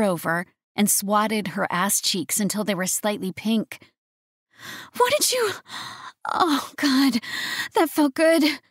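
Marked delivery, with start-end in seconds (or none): 5.0-8.6 high, breathy pleasured female voice; moaning woman. A narrator's reading. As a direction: moan it out, surprised. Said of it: "she moaned".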